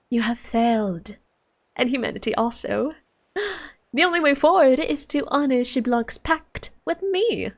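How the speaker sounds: theatrical prophecy of doom; condemning dragon lord. Acted. Dragon lord foretells Natlan's fall, condemning. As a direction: declaim the verdict with lofty drama. Reads game villain's dialogue.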